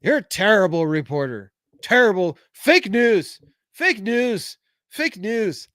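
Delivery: a badly faked Trump scolding a reporter; bad Trump impression. Host doing a Trump impression on request for chat. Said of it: "That was a horrible Trump impersonation".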